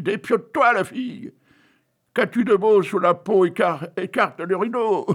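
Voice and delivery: mock crowd yelling at the stage; crowd shouting. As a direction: bawl it like a rowdy crowd. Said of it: "les voilà qui crient".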